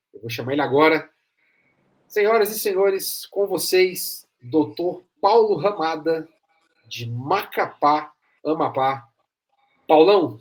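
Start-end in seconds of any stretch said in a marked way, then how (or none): 2.1-9.1 slow, drawn-out host introduction; grand entrance announcement. Acted. 9.9-10.4 booming name call; loud welcome. Real, not acted. Host greets guest loudly.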